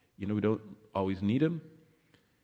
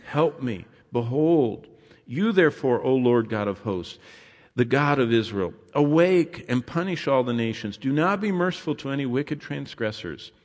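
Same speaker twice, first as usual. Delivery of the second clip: ringing, raised psalm read; scripture reading; 2 semitones higher than usual. Acted. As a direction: call on God with fervour. Preacher reads psalm aloud.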